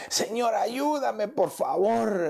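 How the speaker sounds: a hushed, slow "help me, Lord"; pleading inner sigh. Pretend. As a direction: sigh the prayer out like a plea for help. Pleading prayer as example of groaning.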